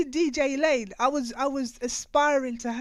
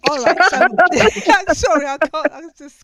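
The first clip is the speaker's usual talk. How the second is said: higher and much louder, squealing with delight; giddy excitement; 5 semitones higher, 10 dB louder than usual. Real, not acted. Host meets her childhood idols, squealing with excitement. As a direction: gush like a starstruck fan. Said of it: "you sound like twelve years old".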